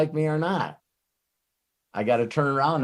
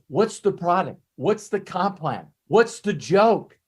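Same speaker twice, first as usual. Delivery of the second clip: voicing a prospect; 5 semitones higher than usual. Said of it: "someone can ask us".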